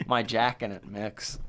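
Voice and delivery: hushed whisper of a punchline; whispered joke. Real, not acted. Slipping the crude joke to his cohost in a whisper. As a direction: breathe it out as a naughty aside.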